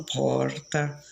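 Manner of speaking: porta with the São Paulo tapped r, por-ta; São Paulo accent. Shown as a demonstration. Chatting with someone from São Paulo, São Paulo accent. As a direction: say porta the paulista way, light r. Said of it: "no sotaque de São Paulo".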